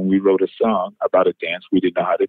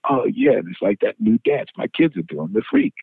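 excited realization; 10 semitones higher than usual. Retold or imitated. Bernard's lightbulb moment, excited.

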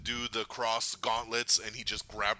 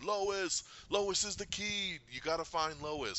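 urgent warning; 7 semitones higher, 5 dB quieter, slower than usual. Retold or imitated. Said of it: "Flash coming through going".

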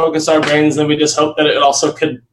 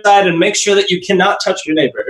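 higher-pitched pretend venue announcement; mock announcer; 5 semitones higher than usual. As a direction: play an usher instructing the audience. Mock announcement to a distanced audience.

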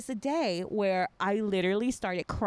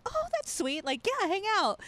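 quoted reply; 10 semitones higher than usual. Retold or imitated. Retelling her own reply.

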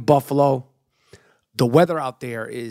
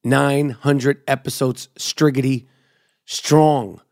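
hype podcast intro. Acted. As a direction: roll out the nicknames like a ring announcer. Podcast host intro over music.

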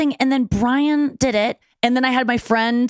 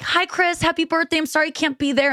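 sweet greeting; 6 semitones higher than usual. Retold or imitated. Acting sweet birthday video greeting.

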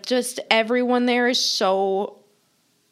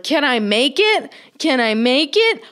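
eager mom; 6 semitones higher, 4 dB louder than usual. Retold or imitated. Mom voiced speeding through light.

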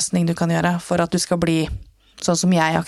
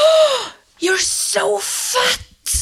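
high, slow mocking old lady; shrieking stranger, much higher and drawn out; 13 semitones higher, much slower than usual. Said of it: "og hun". (en høy, langsom hånende gammel dame)

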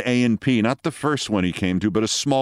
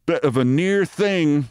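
higher, slow, casual officer's remark; careless; 6 semitones higher, slower than usual. A narrator's reading. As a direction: toss it off like a nonchalant captain. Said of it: "said Captain Mitty carelessly".

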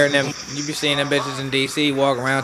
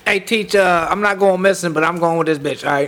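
louder, higher mock call to teacher; 4 semitones higher, 5 dB louder than usual. Student tells teacher he's leaving, loud calling out. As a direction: shout over to the teacher, playfully.

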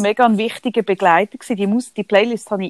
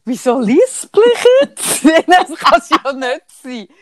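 surprised; 5 semitones higher, 5 dB louder than usual. Real, not acted. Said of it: "woher kommt jetzt das Lispeln".

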